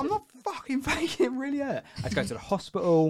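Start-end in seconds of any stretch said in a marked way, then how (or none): 0.0-1.8 put-on much higher, whiny protest of an injured boy; indignant protest. Injured schoolboy protests to Scouse kid, high whine. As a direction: squeak it out like a hurt kid denied.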